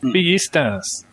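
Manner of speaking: "Villistas" with a y sound for the double L; slow "Villistas", double L like y; Mexican pronunciation. Shown as a demonstration. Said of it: "in Mexican it would be villista".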